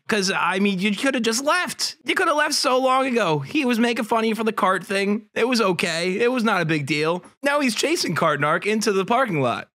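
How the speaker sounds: can't believe it's escalating, voice climbing; alarmed disbelief. Real, not acted.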